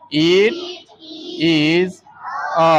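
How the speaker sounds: "It", "is", "a" one word at a time; pronunciation demo. Shown as a demonstration. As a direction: sound out It... is... a with clear gaps. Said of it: "ઉચ્ચાર લખીએ". (ઉચ્ચાર શીખવતાં એક-એક શબ્દ છૂટો)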